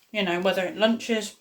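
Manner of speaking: talking with a mouth full of bread; words round a mouthful of bread. Real, not acted. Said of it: "sorry, I got bread stuck in my mouth".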